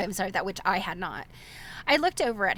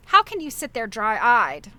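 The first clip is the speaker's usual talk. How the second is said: louder, slow accusing outburst; loud reproach; 8 dB louder than usual. A narrator's reading. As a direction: hurl the reproach, drawing it out. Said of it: "His voice grew louder than ever".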